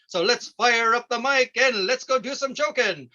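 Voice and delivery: cheerful mock farmer emcee; folksy farm-show host. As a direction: play a jolly hayseed comedian with corny chuckles. Fun Farm Hour host character.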